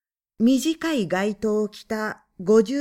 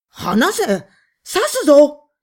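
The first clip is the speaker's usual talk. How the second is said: loud, higher, slow threats; desperate shout; 4 semitones higher, 10 dB louder, slower than usual. A narrator's reading. Husband threatening the man with a knife, shouting. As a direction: scream it while wrestling free.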